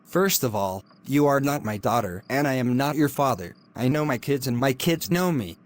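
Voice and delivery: cold, hushed threats from a lecturer; menacing hushed scolding. Acted. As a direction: keep it under your breath and menacing.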